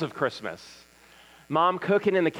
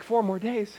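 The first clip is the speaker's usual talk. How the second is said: higher-pitched, dismayed echo of the countdown; stressed wife; 5 semitones higher than usual. Retold or imitated. Wife hearing the kids' countdown, stressed disbelief. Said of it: "my wife's stress level is also growing".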